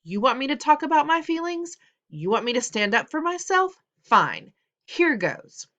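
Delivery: put-on loud, high, furious boy; a fed-up son yelling at his parents; shouting outburst. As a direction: let it all burst out loud.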